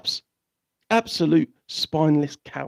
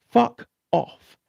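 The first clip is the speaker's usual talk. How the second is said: mock retort; 8 semitones higher than usual. Mock reply to police.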